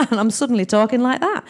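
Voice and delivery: comic touch of Northern English; Northern English accent. Shown as a demonstration. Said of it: "I sort of did a Northern English accent".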